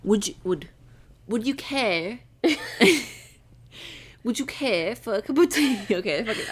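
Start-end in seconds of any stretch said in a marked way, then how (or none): 0.0-2.2 halting stab at British; attempted British accent. Shown as a demonstration. Answering criticism of the R, tentative British accent. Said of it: "Why don't you pronounce the R". 4.2-5.8 laughing mock British; attempted British accent. Shown as a demonstration. Retrying for a friend, giggly British accent. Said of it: "I suck".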